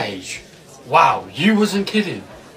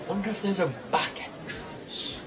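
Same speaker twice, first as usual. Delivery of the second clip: muttered to himself; 3 semitones higher, 14 dB quieter than usual. Acted. Sneaking in, talking to himself.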